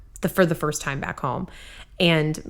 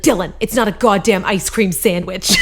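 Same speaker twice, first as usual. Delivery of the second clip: mock dad scolding; 3 dB louder than usual. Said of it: "he would be like".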